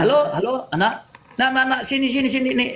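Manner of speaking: tender. Shown as a demonstration. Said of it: "coba kalau kau bicara sehari-hari".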